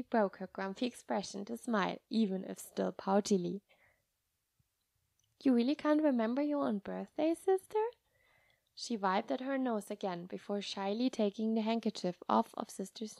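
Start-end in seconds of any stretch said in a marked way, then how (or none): 5.4-7.8 put-on curious little girl. Child asking in wonder.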